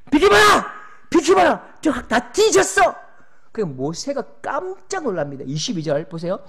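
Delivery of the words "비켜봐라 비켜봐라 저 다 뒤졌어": much higher, much louder roar; God roaring at Moses to step aside; furious God. Acted. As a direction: bellow at him to get out of the way. God roars at Moses to move.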